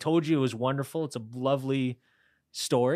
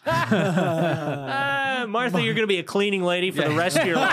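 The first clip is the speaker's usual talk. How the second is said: mock put-down; 5 semitones higher than usual. Acts out putting dreamer Martha down.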